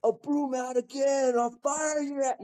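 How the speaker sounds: high, slow menacing warning from the boss; a boss pinning him to the engine bay, slow and high threat; stern threat. Retold or imitated. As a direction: lean in slow and hard like a threatening captain. Captain threatening him after broom.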